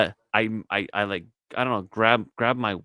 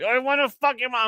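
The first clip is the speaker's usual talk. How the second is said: mock leering friend; 13 semitones higher than usual. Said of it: "And they're like".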